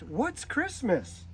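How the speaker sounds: slow, puzzled little hippo voice; curious little hippo. A narrator's reading. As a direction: wonder aloud like a small child. Child hippo asks question.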